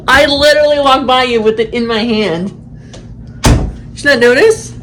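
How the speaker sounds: laughing while teasing. Real, not acted. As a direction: talk through real laughter. Laughing at kid.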